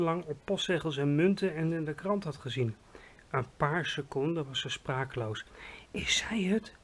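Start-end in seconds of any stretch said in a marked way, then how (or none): 5.9-6.7 voiceless narrated whisper. A narrator's reading. Giant asks Sophie about the sleeping woman, whispered. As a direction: whisper the question secretly. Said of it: "fluisterde de G V R".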